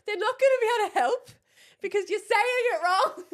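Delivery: high, hurried, tearful complaint; hammed-up, near-crying protest; exasperated whine. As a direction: wail in mock despair at your partner. Exasperated at partner on phone.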